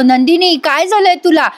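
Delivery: lightly panicked retold question; imitated panic. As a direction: act out alarm over someone unconscious. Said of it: "जीवा खूप panic झालेला असतो".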